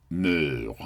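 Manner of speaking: "meur" said as a drawn-out French word; French pronunciation. Shown as a demonstration. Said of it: "comes from the French word".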